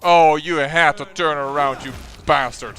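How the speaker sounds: furious outburst, loud; angry shout. Real, not acted. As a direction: yell it at the enemy. Enemy turns, player yells.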